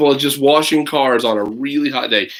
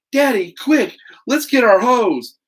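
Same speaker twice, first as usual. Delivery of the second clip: a higher, eager call to daddy; excited shout; 11 semitones higher, 5 dB louder, slower than usual. Acted. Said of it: "Matthew shouts".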